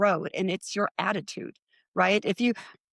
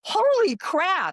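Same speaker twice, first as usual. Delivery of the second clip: very high, very slow, stretched out; stunned; 11 semitones higher, 4 dB louder, much slower than usual. Retold or imitated. Thinking about the woman's decades-old cancer, stunned. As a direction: drag it out, gobsmacked. Inner reaction, disbelief.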